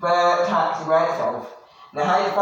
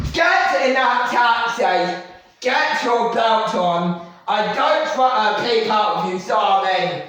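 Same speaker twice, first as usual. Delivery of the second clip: bossy shout; 3 semitones higher than usual. Acted. Katie yells orders at Solomon.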